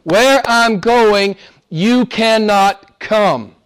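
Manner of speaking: drawn-out scoffing quote; a hint of mockery; mocking Jews. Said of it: "the Jews were saying".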